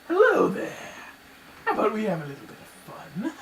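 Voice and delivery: high, creepy villain voice with a menacing lilt; zombie voice. Acted. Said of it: "I call it my zombie voice".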